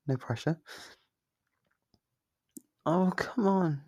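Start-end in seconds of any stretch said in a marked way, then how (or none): 2.9-3.8 whiny protest. Acted. Demon pleads to be released.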